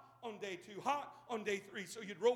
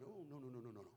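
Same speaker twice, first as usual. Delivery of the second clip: much softer, lower demurring no's; mock polite refusal; 9 semitones lower, 12 dB quieter, faster than usual. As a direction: wave off the gift shyly.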